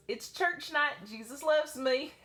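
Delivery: put-on high, sweet Southern child voice; little boy voice. Little boy asking his dance teacher, high child voice. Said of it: "I have to do his voice".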